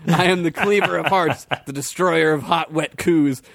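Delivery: proud, booming boast; boasting warrior. Acted. Fred boasting to Gregory, proud warrior boast. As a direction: puff up and brag.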